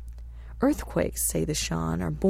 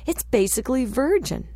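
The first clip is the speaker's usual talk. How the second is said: higher-pitched, lightly amazed quote; mild exclamation; 6 semitones higher, 3 dB louder than usual. A narrator's reading. Gary marvels at the untouched forest, mildly exclaiming. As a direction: exclaim it with restrained wonder. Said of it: "he exclaimed".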